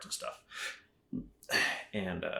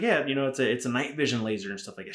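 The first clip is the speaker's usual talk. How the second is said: put-on a lighter Asian-accent take on the vendor; lightly voiced Asian saleswoman; mock Asian accent; 2 semitones higher, faster than usual. Vendor lady repeating her sales pitch, light mock Asian accent. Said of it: "excuse my terrible accent".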